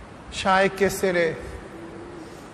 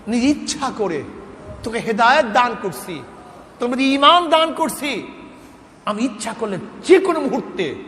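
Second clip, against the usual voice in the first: voice from the unseen; 2 semitones higher than usual. Retold or imitated. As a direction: thunder down a reproach from heaven. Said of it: "গায়েব থেকে আক-, আওয়াজ পেলাম".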